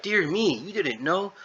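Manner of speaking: high, swooping feigned astonishment; mock surprise. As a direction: imitate a condescending "dear me". Natalie taunts Jack with feigned surprise.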